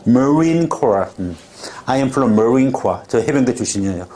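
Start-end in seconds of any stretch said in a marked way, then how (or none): 0.0-1.0 머린 코어 said slowly, each syllable clear; teacher models 머린 코어 slowly for students; slow careful model. Shown as a demonstration. Slow careful model. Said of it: "이게 발음이잖아". 1.9-3.0 Marine stressed, said very slowly; slow demo line. Shown as a demonstration. Teacher models a sentence slowly for the class.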